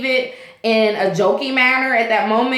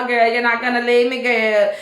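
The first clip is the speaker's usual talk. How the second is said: put-on Jamaican accent. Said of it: "in her little Jamaican accent".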